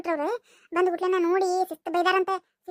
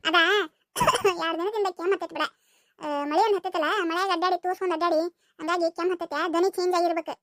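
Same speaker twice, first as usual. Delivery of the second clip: put-on boy with a cold. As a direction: play Surya with a changed voice from a cold. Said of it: "ಬ್ಯಾರೆ ಕೇಳಿಸ್ತು".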